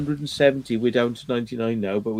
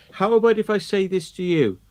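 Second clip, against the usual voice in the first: horrible nasty voice; 9 semitones higher, 10 dB louder than usual. Retold or imitated. Judge taunting the streamer, loud horrible voice. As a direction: drag out each insult loudly, with contempt. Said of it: "putting on a horrible voice".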